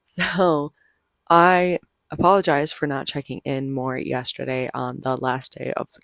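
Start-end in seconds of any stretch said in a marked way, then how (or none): 0.0-3.7 hoarse voice. Real, not acted. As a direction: voice nearly gone, hoarse. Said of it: "my voice is gone".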